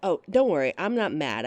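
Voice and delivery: ordinary talk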